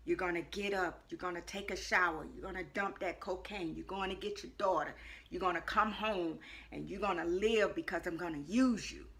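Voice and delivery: even, steady recital of steps; calm voice. Retold or imitated. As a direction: repeat the instructions calmly and evenly. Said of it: "in this calm voice".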